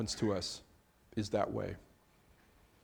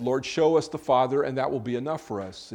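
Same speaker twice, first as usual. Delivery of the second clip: louder, rising plea of Philip; Philip pleading; 4 dB louder than usual. Retold or imitated. Disciple asking Jesus, a rising plea. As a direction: ask it like an eager disciple. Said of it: "Philip said".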